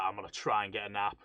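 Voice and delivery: low, soft, mild-mannered plea; reasonable request. Retold or imitated. Podcaster imagines the tired passenger asking nicely, low and soft. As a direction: keep it down, politely asking for quiet.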